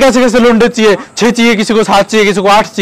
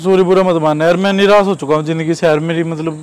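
low, subdued, hopeless; dejected confession; 5 semitones lower, 5 dB quieter than usual. Real, not acted. Lonely man confessing he has given up, dejected. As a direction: let the voice sink into soft despair. Apologises, confesses despair after outburst.

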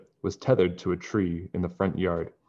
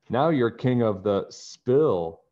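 laughing; 4 semitones higher, 4 dB louder, slower than usual. Acted. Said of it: "George laughed".

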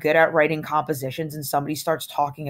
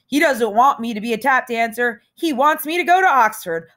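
hammed-up showman; 6 semitones higher, 4 dB louder than usual. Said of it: "knocking myself out, tap dancing".

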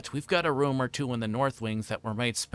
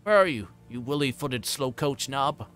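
mildly raised, impatient call; shouting; 3 semitones higher, 4 dB louder than usual. A narrator's reading. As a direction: call out as an exasperated boss. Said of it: "he shouted".

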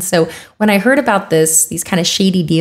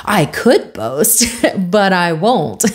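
slow, teasing mock humblebrag; lightly mocking self-importance with a chuckle; boasting without boasting; slower than usual. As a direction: imitate a coy boaster, drawing the words out. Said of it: "he boasts without boasting".

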